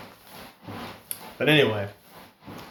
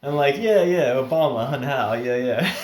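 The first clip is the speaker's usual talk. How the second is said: eager agreement; 3 semitones higher, 4 dB louder than usual. Retold or imitated. Acts out his eager agreement.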